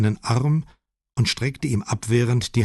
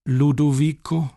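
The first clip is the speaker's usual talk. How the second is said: put-on sweet old lady; 6 semitones higher, 3 dB louder than usual. A narrator's reading. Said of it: "sagte sie noch einmal".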